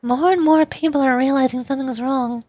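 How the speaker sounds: expressive visual-novel style reading; game dialogue read-aloud. Acted. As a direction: read the story lines aloud with light acting.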